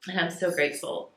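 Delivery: grateful words catching in a teary voice; blubbering, tearful. Real, not acted. Widow thanking her online friends, through real tears. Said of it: "I'm so sorry I'm blubbering".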